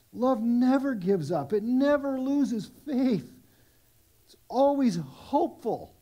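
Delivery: slow, deliberate reading of the verse; slow scripture reading. Shown as a demonstration. Pastor reading Corinthians to congregation, slow and measured. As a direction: lean on each word, unhurried.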